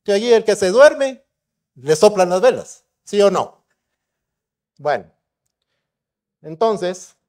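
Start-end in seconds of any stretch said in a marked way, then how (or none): 0.0-3.6 loud, high call to the room. Real, not acted. Speaker warns the audience about dozing off, calling out. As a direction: project it loudly up high, ending on a check.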